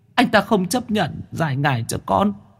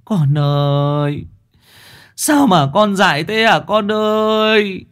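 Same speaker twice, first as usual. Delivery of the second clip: slow, wailing grief; mother grieving, beating her chest, slow lament; slower than usual. Acted. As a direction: cry out for her lost child, slowly. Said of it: "tay đấm ngực thùm thụp".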